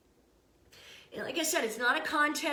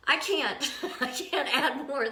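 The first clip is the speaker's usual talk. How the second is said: laughing. Real, not acted. Laughs at own exhaustion.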